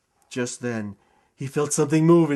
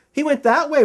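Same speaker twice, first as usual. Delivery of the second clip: higher, a lightly voiced fireman; tossed off helpfully, pitched up; 9 semitones higher, 4 dB louder than usual. A narrator's reading. Fireman pointing Zeke toward the school, lightly voiced and higher.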